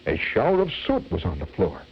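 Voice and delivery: measured, rhythmic verse recital; comic poem reading. Acted. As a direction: relish each rhyme of a mock cautionary tale.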